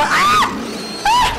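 high piercing shrieks; frightened screams. Real, not acted. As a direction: scream at a sudden scare. Mother terrified in VR game. (urla di terrore)

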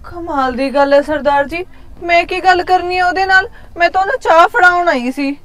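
loud, offended self-defence; wife loudly denying she did anything wrong; indignant loud reply. Acted. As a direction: fire back, insulted by the accusation. Wife defends herself in quarrel.

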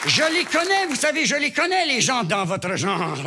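wag a finger at the patient; scolding doctor. Acted.

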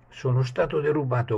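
a high, loud cry of being robbed; shouted. Acted. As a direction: shout it out in alarm. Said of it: "gridò".

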